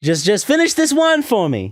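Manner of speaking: high, put-on pleading; imitated plea. Woman asking him to finish one, high mock plea.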